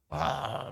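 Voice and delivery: imitated drunken drone, drawn out; drunken humming. Pastor imitating a drunk at the back of church, mock drunken humming. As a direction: slur out a wordless "aah" like a tipsy churchgoer. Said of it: "막 흥얼흥얼해".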